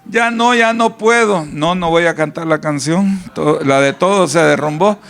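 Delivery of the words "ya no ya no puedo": high, defeated moaning; mock despair of a fearful person; hopeless whining complainer. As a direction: act out someone giving up on tomorrow. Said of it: "y que dicen".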